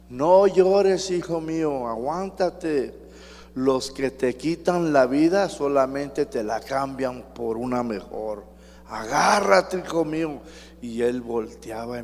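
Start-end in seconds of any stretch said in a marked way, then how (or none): 0.1-10.4 mother shouting. Retold or imitated. Mother shouts to her son in the arena, pleading loudly. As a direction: call out to your son as he's led away, pushing each plea. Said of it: "la mamá le gritaba por las rejas".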